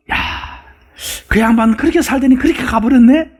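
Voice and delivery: a hint of a scornful neighbour; gossiping neighbour. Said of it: "나를 무엇이라고 평가할까?". (조문객이 고인을 두고 비아냥거리듯)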